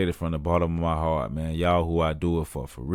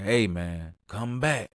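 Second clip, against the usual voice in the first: higher, pleading buddy voice; mock pleading; 4 semitones higher than usual. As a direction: beg your friend to come back, pitched up. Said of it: "I'm like".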